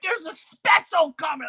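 high, loud eager call; a kid insisting a plane is coming; excited kid shout. Retold or imitated. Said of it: "You're like".

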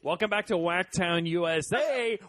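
slow, laughing game show host; show host intro. Acted. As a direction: announce the show with a grin. Mock show intro announcer.

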